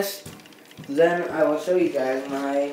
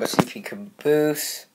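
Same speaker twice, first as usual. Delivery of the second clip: whisper. Real, not acted. Showing train club caboose.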